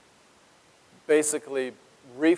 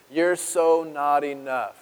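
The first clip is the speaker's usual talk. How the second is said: accusing inner voices. Retold or imitated. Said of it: "the voices that you hear are just".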